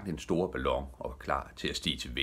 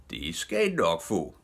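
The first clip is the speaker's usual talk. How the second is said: usual speaking voice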